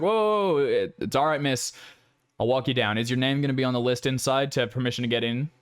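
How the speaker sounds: startled whoa, then easy and friendly; calm her down like a friendly night guard; soothing guard. Acted. Guard reassuring the student, easygoing.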